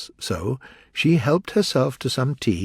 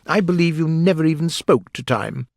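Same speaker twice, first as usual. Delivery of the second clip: scornful Hatter, pitched up; contemptuous; 7 semitones higher, 4 dB louder than usual. A narrator's reading. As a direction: look down on the listener. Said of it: "the Hatter said with contempt".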